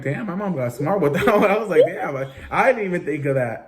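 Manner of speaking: amazed. Retold or imitated. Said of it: "I'm like".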